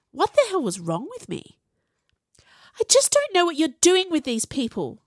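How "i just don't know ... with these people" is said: high, loud angry hiss. A narrator's reading. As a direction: hiss it in contempt. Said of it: "Viola hissed".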